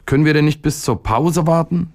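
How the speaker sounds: put-on high, whiny little-boy plea; self-pitying boyish whine; plaintive. A narrator's reading. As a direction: plead pitifully in a high boy's voice. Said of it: "fragte der Junge wehleidig".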